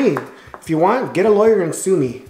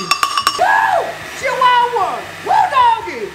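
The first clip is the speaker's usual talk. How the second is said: put-on very high whooping cowboy accent; slower than usual. Whooping over the tasty seasoning, hammed-up cowboy accent. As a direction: holler like a high-pitched cowpoke accent. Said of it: "I gotta drop the accent".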